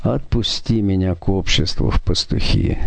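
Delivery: ordinary delivery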